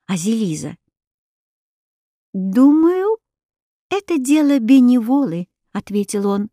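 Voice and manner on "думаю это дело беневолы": lightly voiced hedgehog, pitched up; pondering hedgehog. A narrator's reading. Hedgehog answers the princess's question, lightly voiced and pondering. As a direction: answer in a higher little creature voice.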